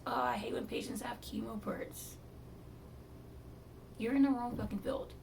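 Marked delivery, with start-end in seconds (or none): 0.1-2.1 whispered mock complaint. Mocking the surgical team's complaint, whispered. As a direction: mutter their gripe under breath.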